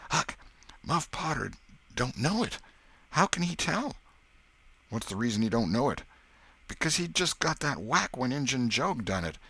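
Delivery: put-on high, eager boy's reasoning. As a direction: reason it out in a rush. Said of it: "Presently he whispered".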